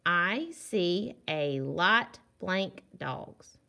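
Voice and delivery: I see a lot blank dogs, read very slowly; teacher reading the sentence with a gap; slow reading aloud. Shown as a demonstration. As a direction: read word by word for beginning readers. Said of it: "This sentence says".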